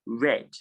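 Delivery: red with a short E; past-tense vowel. Shown as a demonstration. Teacher showing students past-tense read, short E in red. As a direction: say red with the E of bed. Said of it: "it is pronounced red".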